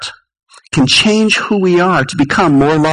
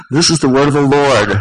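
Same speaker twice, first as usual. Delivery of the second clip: prompting repeat. Shown as a demonstration. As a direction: nudge the congregation to answer.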